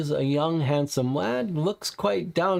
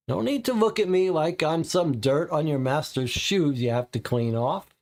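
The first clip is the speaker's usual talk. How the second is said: testy; 2 semitones higher than usual. Acted. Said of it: "you say testily".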